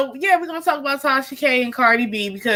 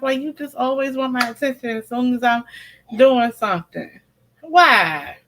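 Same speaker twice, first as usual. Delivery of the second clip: pleading with the dog; 3 semitones higher than usual. Real, not acted. Pleading with her whining dog.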